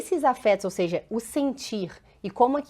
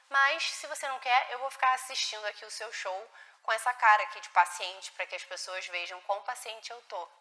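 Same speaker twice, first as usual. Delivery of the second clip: much softer, resigned mother offering water; helpless passive mother; 3 semitones lower, 6 dB quieter than usual. Retold or imitated. Mother telling her upset child she can't help, much softer and resigned. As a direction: hush it like a mother who has given up. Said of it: "passando qual informação pra criança?".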